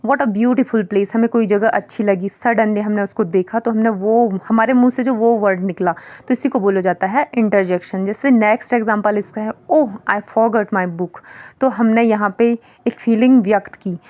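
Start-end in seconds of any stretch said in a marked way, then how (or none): 0.1-1.1 slow example read. Shown as a demonstration. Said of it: "हमने बोला". 9.7-11.1 slow, word by word, opening on oh; slow example with oh. Shown as a demonstration. Teacher shows the interjection before the sentence, slowly. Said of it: "इसको बोलने से पहले हमने ओ बोला".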